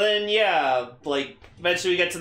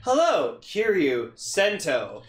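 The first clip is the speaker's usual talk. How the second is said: spam caller voice; 5 semitones higher, slower than usual. Retold or imitated. Spam call voice.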